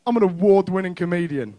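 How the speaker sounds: a hint of a cocky son; proud little boy. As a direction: crow it like a proud eleven-year-old. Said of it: "he was like".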